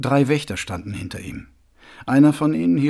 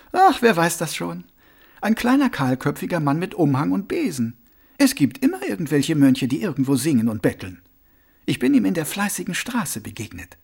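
lightly voiced, higher-pitched woman; Rosi, impatient young woman; 4 semitones higher than usual. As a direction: brush the question off in a higher voice. Rosi answers offhandedly.

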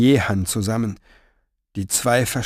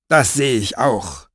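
growled. Acted. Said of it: "knurrte Fenoglio".

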